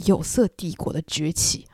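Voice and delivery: whispering the book title like a secret; secretive whisper. Retold or imitated. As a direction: lean in and breathe it conspiratorially. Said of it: "非常非常神秘的事情".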